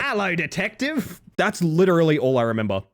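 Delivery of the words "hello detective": slow, creepy Australian Jigsaw greeting; drawn-out Aussie hello. Retold or imitated. Streamer repeating the one line he remembers, in an Australian Jigsaw voice. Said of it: "is this part".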